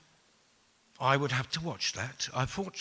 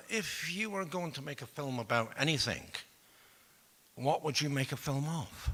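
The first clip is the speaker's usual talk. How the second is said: put-on softer Edinburgh accent; 2 semitones higher, 7 dB quieter than usual. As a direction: ask it as a polite Edinburgh Scot. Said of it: "a very nice Edinburgh accent".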